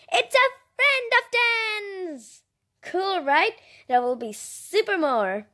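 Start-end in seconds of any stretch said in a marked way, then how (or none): 0.1-2.4 sing-song discovery. Real, not acted. Realizing the math point.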